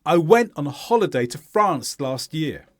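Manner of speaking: falling statement, weight on "went" and "France"; stressed content words. Shown as a demonstration. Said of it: "How would you say this?".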